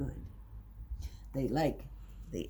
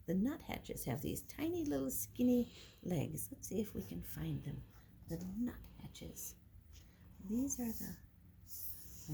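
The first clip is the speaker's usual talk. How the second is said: soft whisper; 5 semitones higher, 7 dB quieter than usual. Real, not acted. Pointing out nuthatches softly.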